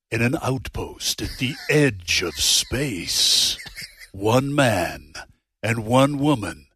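dramatic trailer narration, slow; movie trailer voice. Shown as a demonstration. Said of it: "a movie trailer voice intro".

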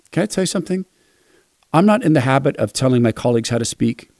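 understated sincere appeal; gentle private plea. Retold or imitated. Privately tells colleague gently.

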